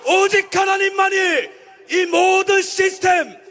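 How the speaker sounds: fiery sermon at a rally; preaching at full force. Acted. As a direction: roar it like a preacher.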